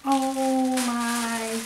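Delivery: overwhelmed delight. Real, not acted. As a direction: gush in a high, stretched-out voice. Overwhelmed on opening the gift box.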